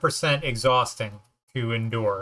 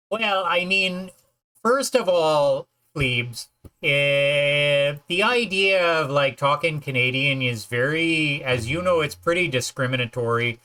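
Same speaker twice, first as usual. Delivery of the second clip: put-on Canadian accent. Shown as a demonstration. Asked to talk Canadian on stream, Canadian accent. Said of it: "Talk Canadian, please".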